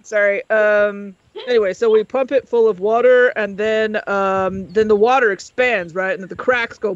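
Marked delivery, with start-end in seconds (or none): 1.5-6.9 lightly deepened lecturer voice; a hint of a deep-voiced professor; Professor North. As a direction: explain it in a slightly deep voice. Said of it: "Professor North had a really deep voice".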